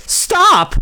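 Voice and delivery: high, loud panicked shriek; scream. Acted. Wilbur screaming to stop the old sheep, panicked shriek. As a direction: cut her off with a terrified scream. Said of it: "screamed Wilbur".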